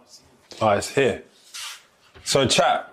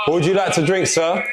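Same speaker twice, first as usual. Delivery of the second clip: waiter voice; 5 semitones higher than usual. Acted. Plays waiter taking order.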